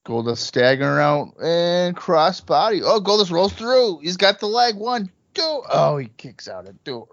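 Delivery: lively ringside play-by-play call; wrestling commentator. Acted. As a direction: call the match live like a broadcaster. Live play-by-play of the match.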